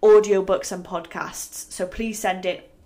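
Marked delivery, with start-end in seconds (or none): 1.7-2.7 spluttering mid-sentence; spitting while talking; spit take. Real, not acted. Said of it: "I just spat everywhere".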